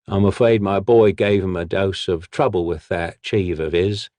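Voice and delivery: a cheerful thug explaining the job; lightly voiced street brute; hulking brute. The brute speaks.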